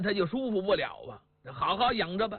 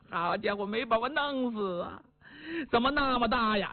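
fretful wife. Acted. Wife tells husband and son the rooster scared her, fretful. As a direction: wail it like a spooked wife. Wife boasts after birth.

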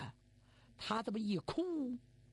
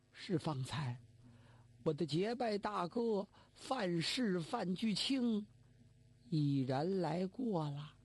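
grieving son, slow; 2 semitones lower, slower than usual. Acted. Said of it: "娘，爹".

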